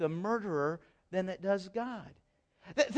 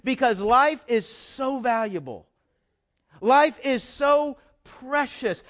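earnest Jesus; 6 semitones higher than usual. Acted. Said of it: "I think Jesus would say".

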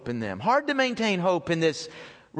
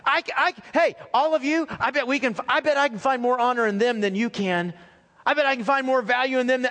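acted one-upping boast, pitched up; competitive challenge; 4 semitones higher than usual. Preacher acts out believers competing to find honor, competitive challenge. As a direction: throw down a playful challenge, higher than usual. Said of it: "challenging us to make it a competition".

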